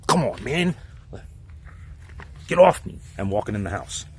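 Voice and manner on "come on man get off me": retold protest. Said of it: "by just being like".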